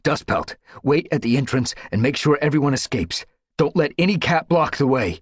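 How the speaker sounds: high, loud command. Acted. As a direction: call her back sharply. Firestar gives orders.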